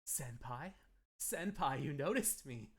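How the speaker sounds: put-on anime admirer, rising in pitch; fun yandere. Avatar calling out to senpai, playful mock yandere. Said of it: "like, a fun yandere".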